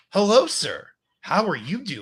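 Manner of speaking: robotic bot voice. Reading a bot account's messages aloud as the bot: bot voice. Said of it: "Am I just going normal bot voice here?".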